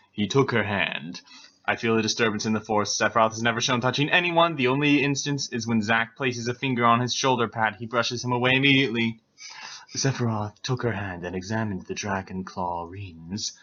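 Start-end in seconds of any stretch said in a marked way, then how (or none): 1.6-9.2 hurried aside. Real, not acted. Reader's fast aside mid-story.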